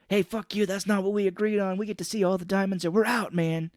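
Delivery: hammed-up angry haggling; mock angry argument. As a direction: bark it like a con man in a standoff. Arguing in a movie retelling.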